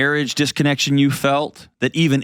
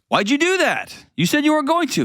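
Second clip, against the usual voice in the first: much higher, betrayed and outraged; bitten guy. Retold or imitated. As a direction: squeal out the betrayal way up high.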